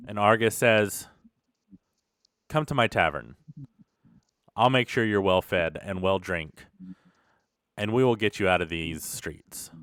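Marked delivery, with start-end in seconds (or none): 2.5-9.7 slightly lower, measured and unhurried offer; calm reassurance. Acted. Tavern owner offering a hungry street thief shelter, calmly reassuring. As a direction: gently take charge, pausing between promises.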